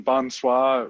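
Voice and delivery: bonsoir drawn out slowly, French nasal on bon; slow questioning bonsoir. Shown as a demonstration. Asking friend if bonsoir means good luck, slow French. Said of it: "did I just say good luck".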